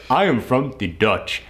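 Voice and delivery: measured delivery in a put-on African accent; imitated African accent. Boss claiming to be Dutch, imitated African accent. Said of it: "he had the thickest African accent".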